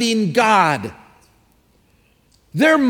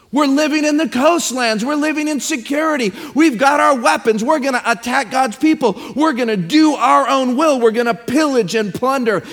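mock boasting; 3 semitones higher than usual. Mocking the nations' boast.

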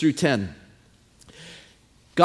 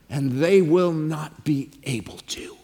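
whispered, much softer verdict; 7 semitones lower, 5 dB quieter than usual. Acted. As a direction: let it fall to a hushed whisper. God's verdict, dropped to whisper.

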